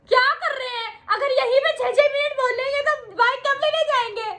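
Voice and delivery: high, exasperated mock protest; mock exasperation. Woman cutting off a long-winded series plan, mock exasperated.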